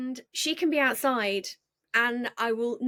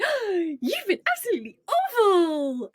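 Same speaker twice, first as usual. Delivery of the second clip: high gushing dog-talk voice; sweet tone to dog; 8 semitones higher, 3 dB louder than usual. Shown as a demonstration. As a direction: coo it high to your dog, whatever the words. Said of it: "seventeen different tones of voice".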